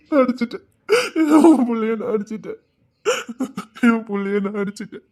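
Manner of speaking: sobbing through the words; guilty father breaking down; crying. Acted. Father to wife about hitting his child, sobbing.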